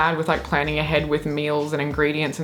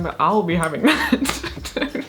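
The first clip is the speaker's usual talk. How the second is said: giggling quote; slower than usual. Acted. Repeating goblin line, laughing.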